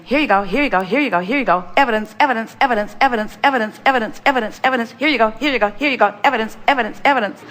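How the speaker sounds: a lightly voiced, cheerful universe handing out gifts; the universe speaking. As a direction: chant it like the universe offering things over and over. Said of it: "that's the universe just saying".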